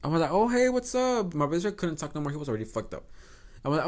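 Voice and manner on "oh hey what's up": high, drawn-out hello; acted-out high-pitched greeting; put-on friendly greeting. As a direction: greet in a much higher, slower voice. Acting out greeting the stranger.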